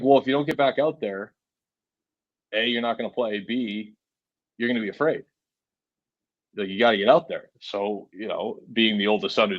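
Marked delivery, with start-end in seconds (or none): 0.0-7.5 imitated Bostonian father laying down the law; Boston dad. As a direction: lay it out like a Boston dad, pausing between points. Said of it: "personify sixty-four-year-old Bostonian".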